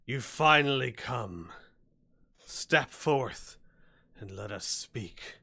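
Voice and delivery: loud, commanding monster challenge, slowing to close; booming hobgoblin. Acted. Hobgoblin challenging the newcomer, booming. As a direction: boom it out like a hobgoblin champion. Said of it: "you hear a loud booming voice from the hobgoblin".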